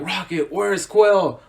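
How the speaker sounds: lightly voiced big brute calling for his friend; Dave Bautista impression. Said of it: "Dave Bautista, he does it like".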